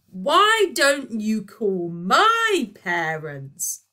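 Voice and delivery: slow, loud, stilted line; bad acting. Virgo to Elliot, loudly and badly acted. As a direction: ham it up badly. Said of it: "said Virgo loudly, with spectacularly bad acting skills".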